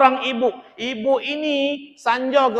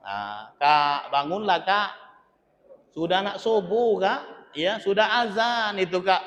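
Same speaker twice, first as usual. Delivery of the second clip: gentle coaxing; 4 dB quieter than usual. Retold or imitated. Wife softly pleading husband to wake. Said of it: "dengan penuh kelembutan".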